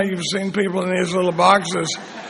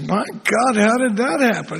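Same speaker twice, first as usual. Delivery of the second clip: acted amazement, pitched higher; mock astonishment with a higher pitch; amazed; 4 semitones higher than usual. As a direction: play the astonished listener, voice lifted. Joke: man amazed by talking dog.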